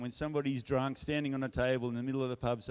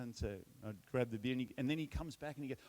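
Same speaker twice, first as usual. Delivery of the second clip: usual speaking voice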